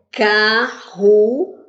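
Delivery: slow "Carruagem" in four separate beats; syllable by syllable. Shown as a demonstration. Teacher dividing a word for pupils, "Carruagem" syllable by syllable. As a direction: break it up: car, ru, a, gem. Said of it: "Tem quantas sílabas?".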